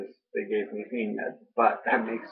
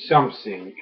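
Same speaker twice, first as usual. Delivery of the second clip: wrong French-accented take; 2 semitones lower, 3 dB louder than usual. Shown as a demonstration. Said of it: "which is not what a French person would say".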